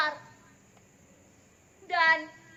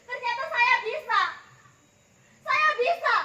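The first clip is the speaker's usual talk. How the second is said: triumphant; 4 semitones higher than usual. Acted. Triumphant after the laugh.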